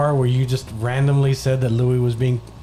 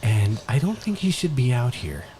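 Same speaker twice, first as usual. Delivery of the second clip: color commentator. Acted. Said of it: "You're the color commentator".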